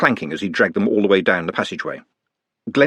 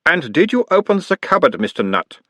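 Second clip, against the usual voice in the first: put-on mild Uberwald accent; 8 semitones higher than usual. A narrator's reading. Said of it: "mild Uberwaldian accent".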